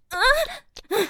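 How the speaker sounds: short high-pitched moan. Acted. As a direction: let out a quick high moan. Moaning during the scene.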